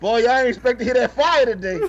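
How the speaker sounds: fast, loud, laughing hype; excited. Real, not acted. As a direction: hype up the audience. Hyped after song.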